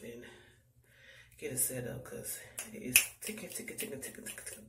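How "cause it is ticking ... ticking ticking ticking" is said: whispering. Real, not acted. Urgent time running out.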